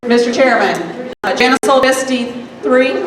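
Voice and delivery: firm, projecting classroom voice; teacher voice. Real, not acted. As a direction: address the room like a teacher. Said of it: "I'll put on my teacher voice".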